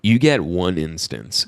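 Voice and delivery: low, slow, measured warning; stern condition. Acted. Son answering mom about moving in, low and stern. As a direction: lay it down slowly and firmly.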